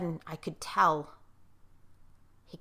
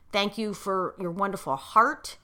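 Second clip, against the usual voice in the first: teary; 5 dB quieter than usual. Real, not acted. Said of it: "tears in my eyes like I do now".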